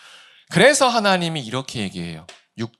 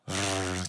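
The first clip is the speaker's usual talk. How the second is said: imitated wolf growl; 5 semitones lower, 9 dB quieter, slower than usual. Imitating waiting wolves.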